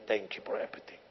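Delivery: whispered thanks. Retold or imitated. Thanking brother at Christmas table.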